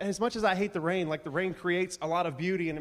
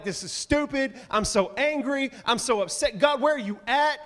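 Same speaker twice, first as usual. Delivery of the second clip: pitched way up and louder, whining at God; hammed-up angry complaint, voice rising high; mock frustrated rant; 7 semitones higher, 4 dB louder than usual. Believer in a hard season ranting at God, mock angry. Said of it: "you're like".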